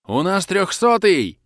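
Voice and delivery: very high, loud, slow alarm shout; yell. Acted. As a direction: yell for help over a wounded man. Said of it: "орёт кто-то".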